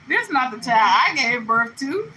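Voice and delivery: put-on a mother who can't recognise her own child; disbelieving mama. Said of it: "Your mama gonna be like".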